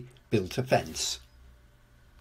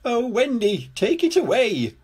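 high, pleading cry for help; acted panic, pitched well up; frightened yell; 11 semitones higher, 3 dB louder than usual. A narrator's reading. Lofty begs Wendy to remove the duck, panicky high yell. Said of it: "Lofty yelled".

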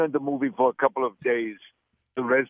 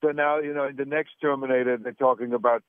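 put-on Austrian accent, Arnold-style; Austrian-accented action star interview voice; Arnold Schwarzenegger impression. Arnold impression held throughout.

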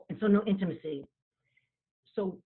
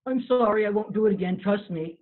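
flippant apology; 2 semitones higher, 4 dB louder than usual. Retold or imitated. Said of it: "is not a fair recovery".

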